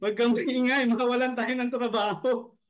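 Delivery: retelling the whisper while still laughing; a hint of the hushed lion, mostly laughter; lion line through giggles. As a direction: try to voice the lion but keep cracking up. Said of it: "Sabi ng lion".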